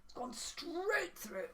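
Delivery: whispering. Acted. After the dog bite.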